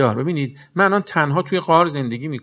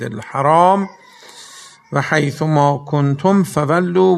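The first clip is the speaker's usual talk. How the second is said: slow Quran recitation; slower than usual. Acted. Preacher to congregation, slow solemn Quran recital. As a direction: draw out each Arabic word slowly.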